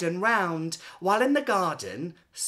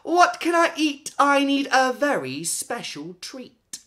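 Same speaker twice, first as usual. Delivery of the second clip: high, loud pleading whine; whiny plea; 10 semitones higher, 8 dB louder than usual. Acted. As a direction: beg for a treat, all drama. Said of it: "she wailed".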